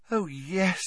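high, soft, happy assent. A narrator's reading. Luna accepting Harry's prompt to go, happily. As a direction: say it softly with a happy lift. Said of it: "she said happily".

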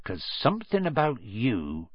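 lightly voiced gruff giant; a hint of a big friendly giant; Hagrid voice. Hagrid speaking in story.

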